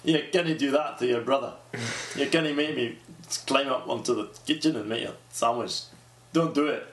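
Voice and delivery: put-on a light, shaky Scottish-Irish accent; attempted Scottish accent. Woman voices her invented little brother, attempted Scottish accent. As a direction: play the invented brother with a wobbly Scottish lilt. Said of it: "Why would I have a Scottish brother?".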